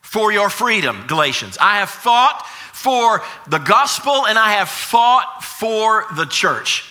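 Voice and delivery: lightly acted apostle's testimony; Paul. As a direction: press each claim home to the congregation. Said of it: "He wants the Galatians to kinda look back".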